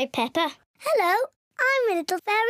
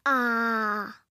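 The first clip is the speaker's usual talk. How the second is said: say ah; 9 semitones lower than usual. Shown as a demonstration. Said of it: "Open wide and say".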